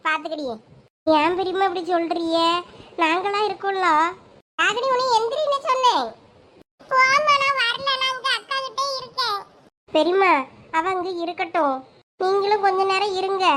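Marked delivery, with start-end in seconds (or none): 4.6-6.1 stern order. Acted. Angry mother orders daughter up. 6.9-9.4 put-on sulky girl. Daughter refuses mother.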